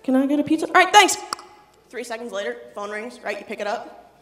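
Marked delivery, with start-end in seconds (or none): 0.0-0.7 put-on child repeats the order much louder. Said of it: "I'm gonna need you to speak up a bit". 0.7-1.2 shouted hasty thanks; loud. Retold or imitated. Child shouting hastily then hangs up.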